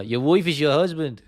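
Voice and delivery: slow, badly faked Irish accent; terrible Irish accent. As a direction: put on a bad Irish brogue, drawn out. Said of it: "That's terrible Irish accent".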